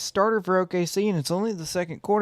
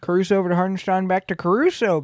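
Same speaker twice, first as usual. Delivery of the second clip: quick, louder play-by-play call; 5 dB louder than usual. Acted. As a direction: call the action live and fast. Live play-by-play.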